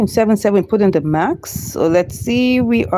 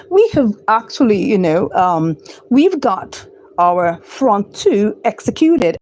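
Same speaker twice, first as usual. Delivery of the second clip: a light put-on British accent. Trader switching to British accent for viewers, mild British accent. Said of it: "Let me turn to my British accent".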